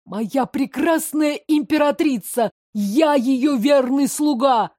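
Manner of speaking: high, slow ecstatic declaration; fanatic devotion. Acted. Drugged adjutant declaring devotion, ecstatic high cry. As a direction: proclaim it like a zealot. Drugged boy worships empress.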